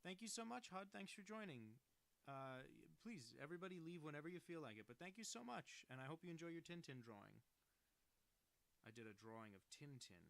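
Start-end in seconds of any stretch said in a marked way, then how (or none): 0.0-7.4 much higher, louder, bubbly thank-you; high gushing thanks. Acted. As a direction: gush your thanks way up high.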